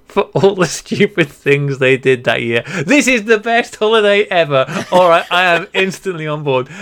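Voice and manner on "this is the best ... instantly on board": delighted. Real, not acted. Delighted reaction to funny holiday.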